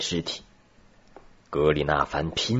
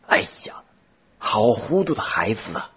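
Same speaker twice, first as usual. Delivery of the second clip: breathy gasp into a raised cry; 4 semitones higher than usual. A narrator's reading. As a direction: exclaim in dismay, voice lifting. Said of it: "格里纳凡的叫声".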